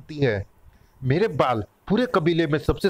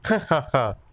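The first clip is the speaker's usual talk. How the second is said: acted girl's giggle; light "ha ha ha" laugh; giggling laugh. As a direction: keep laughing in spite of the scolding. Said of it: "अब हंस क्यों रही है".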